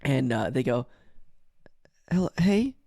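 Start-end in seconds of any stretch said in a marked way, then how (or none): 2.1-2.8 imitating a timid kid in a near whisper; whispery, sad little greeting; hushed, forlorn hello; quiet and sad. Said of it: "really quiet, and it sounds sad".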